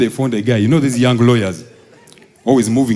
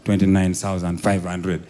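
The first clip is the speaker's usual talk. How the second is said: coaxing bargain; 5 semitones lower, 7 dB quieter than usual. Retold or imitated. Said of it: "He's like".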